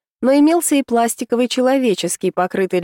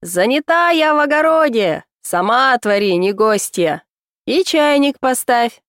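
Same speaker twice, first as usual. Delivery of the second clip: booming woman's voice, raised pitch; talking skull; 3 semitones higher than usual. Acted. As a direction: boom it out like a bossy old woman. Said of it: "молвил зычным женским голосом".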